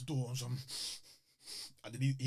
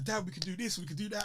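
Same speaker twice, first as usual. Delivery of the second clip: put-on higher, eager kid voice; imitating an excited Will; 6 semitones higher, 3 dB quieter than usual. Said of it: "He's like".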